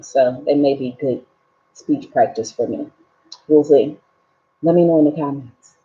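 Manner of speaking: slightly muffled by retainers; wearing a retainer. Real, not acted. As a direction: speak through a retainer. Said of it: "I have my, my, uh, retainers in".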